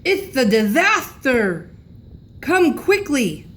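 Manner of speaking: put-on slow old man's shout, calling for help; grandpa shouting. A narrator's reading. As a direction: call the family upstairs in a panic. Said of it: "He was still shouting".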